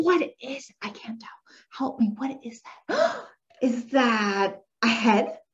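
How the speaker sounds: hushed, then a gasped guess; playful puzzlement. Shown as a demonstration. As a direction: wonder aloud for a child. Modelling puzzled guessing for child.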